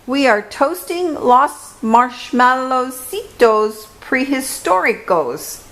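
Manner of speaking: put-on high Spanish-accented little dog; proud and cheerful, a small dog bragging; playful chihuahua voice. A narrator's reading. Chihuahuas speaking.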